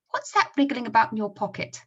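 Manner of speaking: lively Scottish comic voices; high Scottish characters; Scottish accent. Acted. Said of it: "read them using the Scottish accent".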